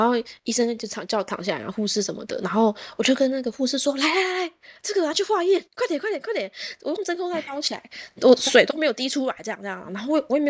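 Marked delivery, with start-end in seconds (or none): 4.0-6.5 high, hurried mock urgency; imitating herself rushing the nurse; retold urgent hurry. (模仿自己催护士，语调高而急促)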